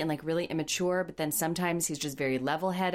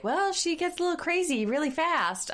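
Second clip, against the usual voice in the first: put-on high voice; 13 semitones higher than usual. Imitating Josh in a put-on voice.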